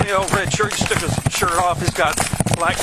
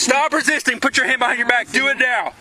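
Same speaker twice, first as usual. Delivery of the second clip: shouted surrender demands; 5 semitones higher than usual. Real, not acted. Officer cuffing suspect.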